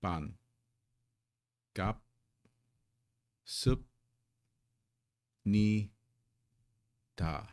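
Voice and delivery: ban, gap, sup, ni, da each said apart with pauses; syllable by syllable. Shown as a demonstration. Teacher showing each syllable of the greeting said separately. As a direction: chop each syllable off on its own. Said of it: "pronounce each of these syllables".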